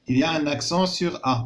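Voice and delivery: teacher's slow French reading; slow dictation. Shown as a demonstration. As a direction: read slowly to the class. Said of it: "قال لك dans la phrase B".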